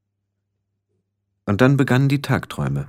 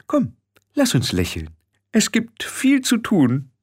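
high, airy chirp; cheerful; 11 semitones higher than usual. A narrator's reading. Frau Grad urges Tiffany to come along, cheerful. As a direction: cheerily urge them along in a raised voice. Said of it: "sagte Frau Grad fröhlich".

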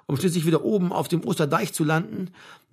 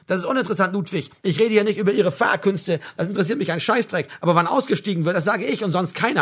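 stern sergeant, voice raised a little; angry telling-off; 4 semitones higher than usual. Acted. Sergeant asserts his command over Ludwig, angrily. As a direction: pull rank on the driver. Sergeant berates the bus driver.

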